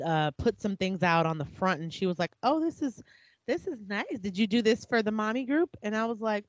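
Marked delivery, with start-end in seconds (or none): 2.4-5.7 imitating a faintly pretentious put-down; mock sarcastic praise; snide sarcasm. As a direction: retell her backhanded compliment, pitched up at the start. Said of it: "the way she said it felt".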